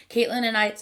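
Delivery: interrupted by a hiccup. Real, not acted. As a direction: hiccup mid-sentence. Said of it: "I'm hiccuping".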